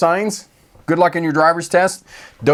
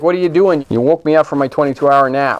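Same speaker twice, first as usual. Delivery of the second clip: woken dog; 3 dB louder, faster than usual. Pretend. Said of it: "He's like".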